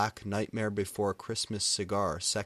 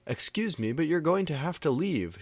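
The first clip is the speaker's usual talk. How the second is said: higher, prim complaint; a hint of a prim lady; 8 semitones higher, 4 dB louder than usual. A narrator's reading. Lady in the theater asks them to leave, prim higher voice. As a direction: scold them politely from behind. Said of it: "shooted the lady behind us".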